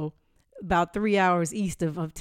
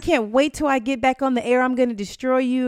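mock huffy rival; 5 semitones higher, 4 dB louder than usual. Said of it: "And he was".

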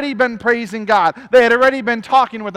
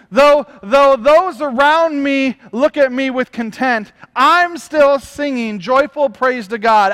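slow, louder, swelling preacher cadence; testimony read from the pulpit; fervent preaching read; 3 dB louder, slower than usual. Acted. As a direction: proclaim each line slowly like a sermon climax. Preacher reads a quote with fervor.

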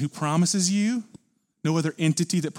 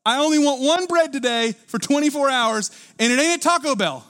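fervent vow; 9 semitones higher, 5 dB louder than usual. Retold or imitated. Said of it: "It's literally physically saying".

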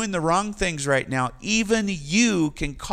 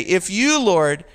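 pleading; 2 semitones higher, 3 dB louder, slower than usual. Acted. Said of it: "in verse three you say".

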